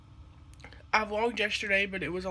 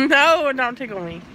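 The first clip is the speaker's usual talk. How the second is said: being tickled; 2 semitones higher, 10 dB louder than usual. Real, not acted.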